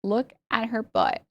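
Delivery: put-on slow Valley Girl quote. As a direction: lightly imitate a Valley Girl, stretching words. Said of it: "when I think of Valley Girl accent".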